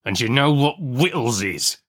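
interrogating convict in rustic dialect; threatening convict's questioning; menacing convict. Acted.

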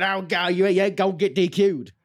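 high-pitched cartoonish referee accent; Earl's accent. Earl warning about a DQ, hammed-up accent impression. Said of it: "or whatever he sounds like".

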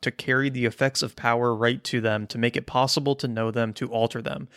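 reading it all without a breath; all in one breath. Real, not acted. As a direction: rush the long quote in one breath. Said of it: "I was trying to do it in one breath".

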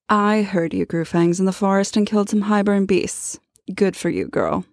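a hint of a cool, superior Amren; her own Amren voice. Shown as a demonstration. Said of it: "Should I try my Amren?".

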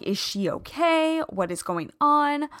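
high, startled worried questions; alarmed questions. Retold or imitated. Owner seeing the coffee hit her puppy, alarmed. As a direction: jump up in alarm at what just happened. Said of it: "I'm like".

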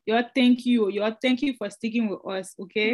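put-on light Liberian accent. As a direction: thank them in a Liberian accent. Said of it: "in my Liberian voice".

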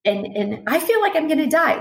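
pitched well up, breath getting short and shallow; a rising, anxious voice while describing a panic. Shown as a demonstration. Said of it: "the pitch of my voice is going up".

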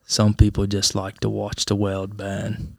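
lightly done British butler impression; a touch of British accent, understated and measured; Alfred. Co-host quoting The Dark Knight about the driver, light butler impression. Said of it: "take a line out of The Dark Knight".

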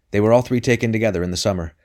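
urgent. Acted. Man pours out grim news.

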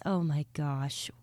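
slow breathy whisper. Real, not acted. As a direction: whisper it slowly to yourself. Aside to listeners.

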